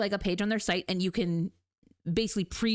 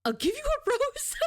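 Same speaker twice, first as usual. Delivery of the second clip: mock romantic; slower than usual. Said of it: "when they said".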